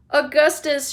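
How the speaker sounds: high, loud shout of the name; mother shouting his name. Acted. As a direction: shout across to him. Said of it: "shouted Missus Gloop".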